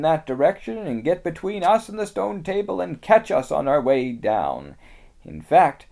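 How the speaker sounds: high, loud, grave beaver voice; a small creature delivering bad news; Mister Beaver.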